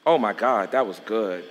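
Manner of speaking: low, soft aside to himself; hushed private awe; quiet aside. Real, not acted. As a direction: murmur it as if moved by the story. Preacher's aside after story.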